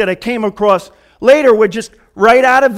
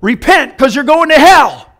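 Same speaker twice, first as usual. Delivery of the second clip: mock fiery preacher; 4 semitones higher, 4 dB louder than usual. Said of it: "He says".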